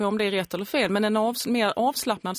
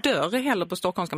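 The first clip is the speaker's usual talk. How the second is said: ordinary talk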